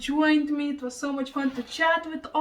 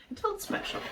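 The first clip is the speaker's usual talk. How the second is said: soft whisper; 7 semitones higher, 6 dB quieter, faster than usual. Real, not acted. Moved thanking viewers.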